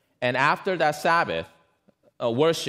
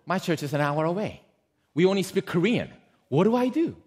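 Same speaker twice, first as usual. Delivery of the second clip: panicked; 5 semitones higher than usual. Retold or imitated. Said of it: "This grandmother panics".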